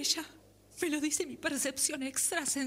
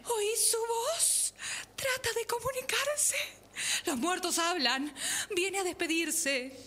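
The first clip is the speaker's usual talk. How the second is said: hushed mystical medium voice; seance medium. Acted. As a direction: speak to the spirit in a trance. Medium addressing the spirit. (médium en trance, voz susurrante)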